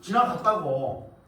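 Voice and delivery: "지나갔다고" drawn out slowly, falling at the end; slow, insistent repeat. Real, not acted. Lecturer insisting to the audience it already passed, slow and firm. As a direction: drag each syllable to make the point. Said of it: "나한테 해달라고 하냐고".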